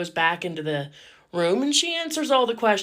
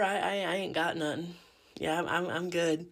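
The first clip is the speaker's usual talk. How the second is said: nervous stammer; 4 semitones lower, 9 dB quieter than usual. Retold or imitated. Nervous denial to doctor.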